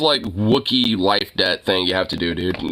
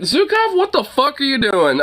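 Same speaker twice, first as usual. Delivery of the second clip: much higher, urgent call at the dog; retold sharp call. Owner scolding his dog after it scared a lady, high urgent call. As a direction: snap at the dog in surprise. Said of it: "and I went".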